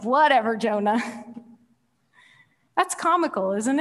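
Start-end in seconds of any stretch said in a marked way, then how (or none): 0.0-1.0 dismissive. Acted. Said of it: "It's like God's like".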